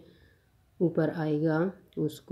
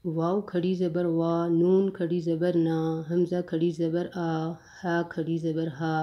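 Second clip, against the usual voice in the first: even, level chant with each final vowel held long; qaida spelling recitation. Shown as a demonstration. Teacher reading khari zabar for students, drilled long vowels. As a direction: recite each letter and mark, stretching the last syllable. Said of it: "ایک الف کے برابر لمبا پڑھا جاتا".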